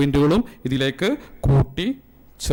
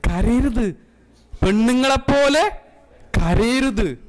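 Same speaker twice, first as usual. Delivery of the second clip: mother scolding; 9 semitones higher, slower than usual. Retold or imitated. Mother scolding her little son not to cry, high and stern. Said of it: "ഉമ്മ ചെറുപ്പത്തിലേ പറഞ്ഞിട്ടുണ്ട്".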